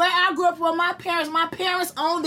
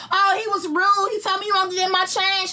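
higher, whiny mock complaint; 5 semitones higher than usual. She mocks her own petty complaints at the landlord's job, high and whiny. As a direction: whine like a petty customer. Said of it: "talking about".

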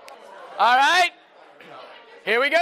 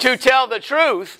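oath leader call; 5 dB louder than usual. Shown as a demonstration. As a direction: lead the oath so the whole room can echo it. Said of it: "repeat after me".

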